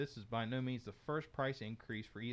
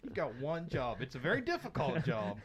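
louder, higher teasing reprimand; mock scolding; 4 semitones higher, 7 dB louder than usual. Host ribbing Justin over his one job, mock scolding. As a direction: playfully tell off a slacking colleague.

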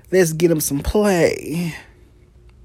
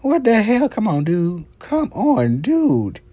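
pitched-up teasing protest at a player; high mock scolding; 8 semitones higher than usual. Ogling a player, high mock scolding. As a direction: squeal it at him in mock outrage. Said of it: "I'm like".

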